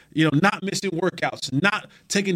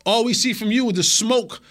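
higher-pitched teammate calling someone out; acted confrontation; 4 semitones higher than usual. Teammate to player skipping treatment and extra film, mock confrontation. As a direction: act out challenging a slacking player, pitched up.

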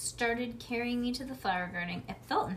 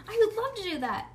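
fast, high and loud; eager; 10 semitones higher, 5 dB louder, faster than usual. A narrator's reading. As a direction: gush it out eagerly. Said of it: "hollowed Shirley".

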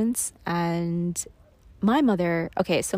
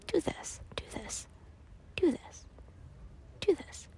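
mocking men; 9 semitones higher, 10 dB quieter than usual.

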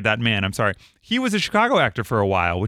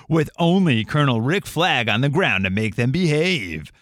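movie trailer voice. Acted. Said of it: "I felt like I had to read it like that".

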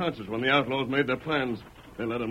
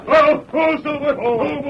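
reining in horse; 10 semitones higher, 7 dB louder than usual. Acted.

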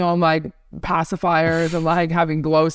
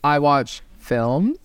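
slow, snooty film-buff impression; lightly hammed-up snobbish drawl; mock pretentious; 2 semitones lower, slower than usual. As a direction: drag it out like a self-important cinephile. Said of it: "those kind of people that are like".

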